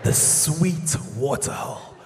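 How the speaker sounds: slow, low, hushed wildlife commentary; nature documentary narrator. Pretend. Documentary narrator describing the Amanzimtoti migration, slow and hushed. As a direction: narrate like a National Geographic film. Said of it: "there's even commentary in the background".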